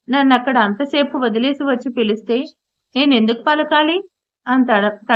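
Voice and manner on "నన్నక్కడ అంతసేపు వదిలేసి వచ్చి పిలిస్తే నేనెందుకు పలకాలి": ordinary delivery, nothing marked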